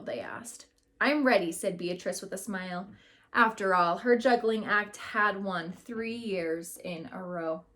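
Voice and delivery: put-on lively read-aloud voice for a class of kids; story narration. A narrator's reading. Teacher reading a picture book to her class, lively storytelling.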